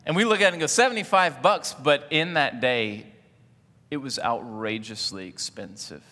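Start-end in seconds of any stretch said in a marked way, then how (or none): 0.7-1.7 raised and louder, shocked at the price; a mock gasp at the price tag; shocked shopper. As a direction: blurt the price in disbelief.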